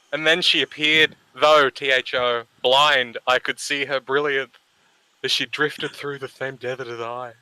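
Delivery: overwrought poetry recital, each phrase milked; reading a cringey poem with mock gravitas; dramatic reading. Reading a friend's poem aloud to mock it, overwrought recital. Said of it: "who would like to do the dramatic reading?".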